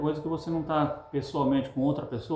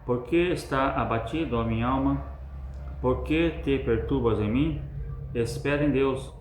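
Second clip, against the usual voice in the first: slow, declaimed psalm reading; slow solemn recitation; solemn scripture reading. Acted. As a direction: read the verse slowly, with weight. Reads the psalm aloud.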